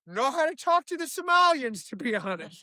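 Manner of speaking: a lightly goofy Minnesota dad; Tim Walz impression. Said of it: "He was like".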